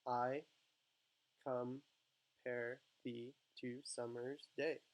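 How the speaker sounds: "I compare thee to summer's day" very slowly, a pause between beats; slow, separated beats on "I compare thee to summer's day"; emphasising each word. Shown as a demonstration. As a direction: chop "I compare thee to summer's day" into isolated, measured syllables. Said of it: "where to emphasize each word".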